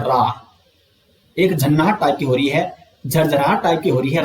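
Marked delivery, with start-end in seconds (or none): 0.0-0.5 रा with a rolled, trilled र; रा said alone with a clear trill; demo of रा. Shown as a demonstration. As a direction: roll the tongue on रा so it vibrates. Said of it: "कंपन हो रहा है".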